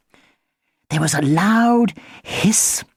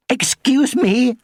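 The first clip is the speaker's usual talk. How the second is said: spluttering; 4 semitones higher, slower than usual. Acted. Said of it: "spluttering a bit".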